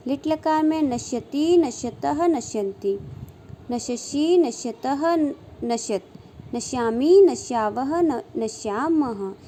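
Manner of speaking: sing-song drill reciting verb forms; rhythmic paradigm recitation. Shown as a demonstration. Sanskrit teacher drilling students on verb forms, rhythmic sing-song recitation. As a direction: chant each form in sets of three, rising then falling.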